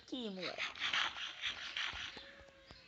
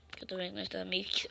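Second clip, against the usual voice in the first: fast whisper; 3 semitones lower, 6 dB quieter, faster than usual. Real, not acted. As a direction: whisper it quickly, sneaking. Whispers while sneaking.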